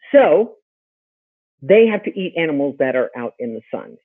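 ordinary delivery

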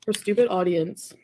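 stupid leaned on, slow; stress on stupid. Real, not acted. Streamer insulting the audience, stupid stressed slowly. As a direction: press hard on stupid, slowly. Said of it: "emphasis on the word stupid".

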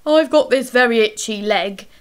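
loud whiny monster; itchy creature. A narrator's reading. The thing starting its excuse to Emily Brown, loud whiny creature. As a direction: whinge about an itch. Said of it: "began the thing".

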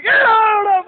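loud, high cheer; excited yell. Real, not acted. Mate urging Mikey on, excited shouting. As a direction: shout him on in delight.

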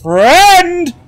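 high, loud squeaky cry; squeaky exclamation. Pretend. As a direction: squeak the word out.

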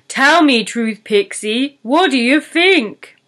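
lightly voiced troll, demanding. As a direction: press her for an answer.

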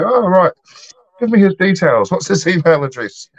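high-pitched, keen imitation; retold eager request. Pub worker to lady wanting cousin's details, excitedly. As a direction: act out jumping at it, voice well up.

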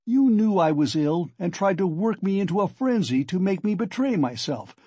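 agitated, high-pitched angry tirade; heated, insistent demands, climbing in pitch; in a passion. Acted. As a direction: hurl accusations in a rising frenzy. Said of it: "You are in a passion. Don't shout".

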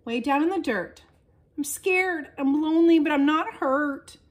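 muffled, as if from under the dirt. A narrator's reading. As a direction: sound buried and far below. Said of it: "came Little Seed's muffled voice".

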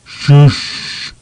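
high, loud whispered shush. A narrator's reading. Snowman repeating the hush, loud and high. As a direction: blurt the hush far too loud. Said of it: "repeated the snowman loudly".

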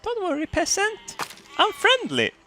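very high, hammed-up French accent; over-the-top French accent, high and sugary; mock French accent. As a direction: play a snooty French lord sweetly. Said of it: "I'm French".

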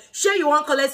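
sassy warning question; with attitude. Shown as a demonstration. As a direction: challenge them with attitude, like a parent's signal to behave. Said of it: "So you say it with an attitude".

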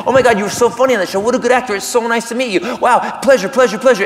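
fast, tumbling starstruck-style praise; gushing greeting. Acted. Actor meets comic from TV show, rapid gushing. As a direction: gush rapidly as you meet someone. Acts out star gushing on meeting.

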